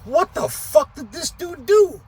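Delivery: can't believe what he's looking at; stunned disbelief. Retold or imitated. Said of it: "I'm like".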